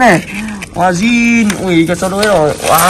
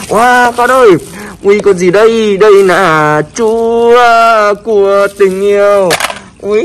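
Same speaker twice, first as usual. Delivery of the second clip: put-on reading to a toddler; much slower than usual. Presenting toys to small viewers.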